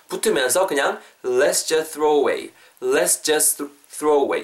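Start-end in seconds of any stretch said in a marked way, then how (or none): 1.2-4.4 "let's just throw away" with the T melting into TH; sounds run together. Shown as a demonstration. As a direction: join "just" to "throw" without releasing the t. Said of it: "이렇게 음이 붙는다는 거예요".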